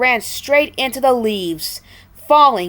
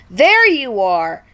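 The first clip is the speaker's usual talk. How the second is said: relief; 3 semitones higher, 6 dB louder than usual. Acted. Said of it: "in relief".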